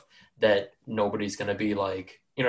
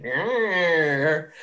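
imitated wiggle noise; 3 semitones higher than usual. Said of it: "still in the same vein of, like".

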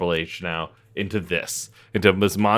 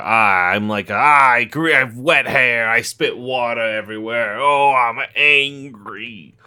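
angry bad boy wrestler. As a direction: play a grumpy wrestler heel, half-joking. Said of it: "He's like".

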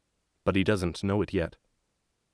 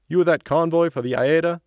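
loud, much higher call; 9 semitones higher, 6 dB louder than usual. Acted. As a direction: call across to the bus. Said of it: "the gate guard calls".

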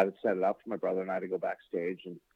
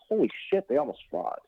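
put-on kid amazement; 4 semitones higher than usual. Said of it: "my brother and I are like".

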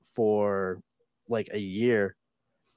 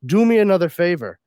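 higher, louder coach's praise turning into a put-down; Irish dialect coach; 4 semitones higher, 5 dB louder than usual. Acted. Coach answers Brad's phone call about his accent, politely withering. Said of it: "And his dialect coach said".

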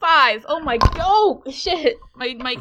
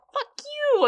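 much higher, loud furious yelp; defiant yell; 5 dB louder than usual. Acted. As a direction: spit it out at the bully. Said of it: "be like".

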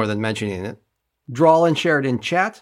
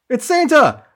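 mock excited; 12 semitones higher, 5 dB louder than usual. Mock excited guess at laugh.

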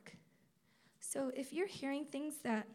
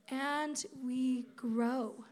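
slow; 3 dB louder, much slower than usual. Real, not acted.

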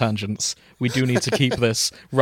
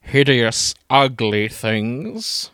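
shrieking; much slower than usual. Acted. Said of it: "The Jubilee shrieked".

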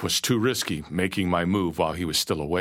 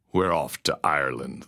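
gruff pirate; 4 semitones lower than usual. Acted. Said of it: "the stranger said".

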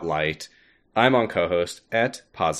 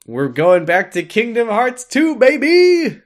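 higher, louder, building to a cheer; excited; 14 semitones higher, 7 dB louder than usual. Real, not acted. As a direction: hype it up to a shout. Hyped announcement of next episode.

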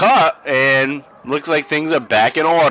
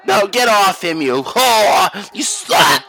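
high, shrill-free mock catfight scream, pitched up; voicing Beulah; 7 semitones higher, slower than usual. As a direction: play the jealous wrestler shrieking at her rival.

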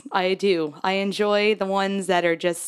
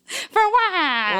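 disbelieving mock whine; incredulous; 9 semitones higher than usual. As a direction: scoff at the choice in disbelief.

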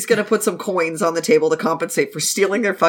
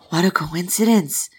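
hushed, teasing aside; teasing whisper; 2 semitones lower than usual. Acted. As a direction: whisper it like a private joke. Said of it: "'Cause they're whispering".

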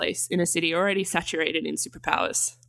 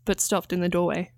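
plain reading voice

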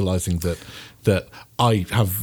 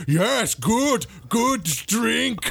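much higher, simple brute approval; barbarian; 11 semitones higher, much slower than usual. Acted. Barbarian nodding at the coffee, high simple brute voice. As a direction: grunt approval like a caveman. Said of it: "I'm like".

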